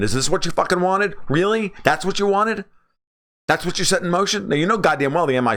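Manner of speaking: indignant disbelief aimed at Bannon; exasperated rant. Real, not acted. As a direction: demand an answer, fed up. Ranting at Steve Bannon.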